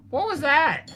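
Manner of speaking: startled question. Real, not acted. Reacting to odd sound in game.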